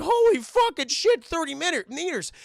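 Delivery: acted crowd shock; stunned onlookers. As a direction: exclaim in hammed-up disbelief, stretching it out.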